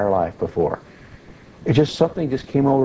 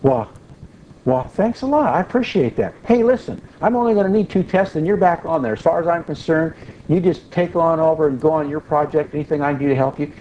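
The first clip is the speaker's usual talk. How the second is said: higher, friendly and grateful; real nice; 6 semitones higher than usual. Retold or imitated. The boss's son thanking his coworker after being calmed, suddenly friendly. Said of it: "And he got real nice".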